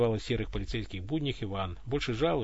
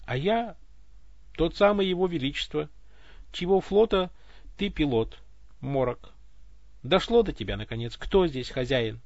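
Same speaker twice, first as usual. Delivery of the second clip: mocking smirk; 3 semitones higher than usual. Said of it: "с обидной усмешкой ответил голос".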